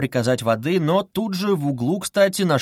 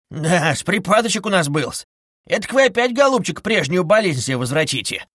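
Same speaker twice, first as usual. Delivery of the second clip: clucking; 4 semitones higher than usual. Acted. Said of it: "Закудахтал с дружественным участием".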